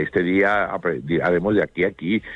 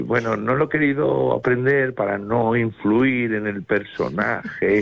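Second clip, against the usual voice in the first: higher, drawn-out actor's excuse; mock excuse; 4 semitones higher, slower than usual. Actor excusing unlearned lines, hammed-up excuse. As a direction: stretch out a precious, lame excuse. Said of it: "a veces hay excusas como de".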